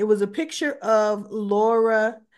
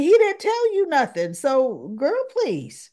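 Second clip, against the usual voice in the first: much higher, louder sassy aside; 7 semitones higher, 6 dB louder than usual. Real, not acted. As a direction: dismiss it with attitude. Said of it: "And I'm thinking".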